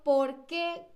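"por qué" joined, stressed on "qué"; accent on final E. Shown as a demonstration. Teacher shows the noun to students, accented "qué". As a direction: put the weight on the E of "qué". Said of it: "con acento o con tilde en la E".

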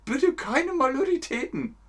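lightly voiced fussy master; repeating the master. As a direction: echo the fussy boss. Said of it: "Was heißt das aber".

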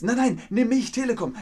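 high, loud pleading sales voice; a provider begging a customer to choose it, high and pleading; eager provider. Pretend. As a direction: beg to be picked, high and eager.

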